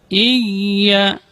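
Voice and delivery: "Iya" with a held double y; "Iya" pronounced "iy-ya"; clear tasydid. Shown as a demonstration. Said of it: "harus pakai tasydid".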